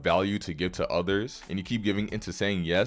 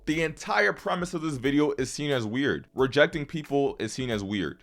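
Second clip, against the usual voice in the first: heated, exasperated rant; getting mad; 4 semitones higher than usual. Real, not acted. Creator telling off viewers who make excuses, mad. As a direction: scold the viewer with rising impatience. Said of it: "I had to get mad right there".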